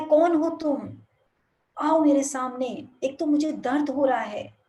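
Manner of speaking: loud, demanding shout at a hidden stranger; hurt boy yelling into the hills; angry shout. Retold or imitated. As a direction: call out, hurt and furious. Boy shouts angrily at the unseen voice.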